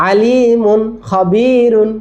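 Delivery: কওমিন হাদিন drawn out very slowly, with the n kept clear; slow drill reading. Shown as a demonstration. Teacher modelling for the children, slow and clear. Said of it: "teacher drilling Quran reading slowly".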